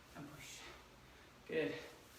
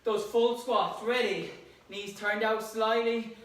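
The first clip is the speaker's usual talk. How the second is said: loud coaching; 2 semitones higher, 3 dB louder than usual. Real, not acted. Coach cheering during squat set.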